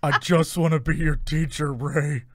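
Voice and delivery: lightly ghostly, quavering put-on voice; a hint of a pleading spooky villain; Kylo Ren. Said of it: "your Kylo voice is very similar to your ghost voice".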